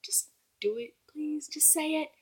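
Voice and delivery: soft, urgent whispered begging; hushed coaxing to say it; whispered pleading. Retold or imitated. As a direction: plead with the characters under your breath. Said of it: "I'm like".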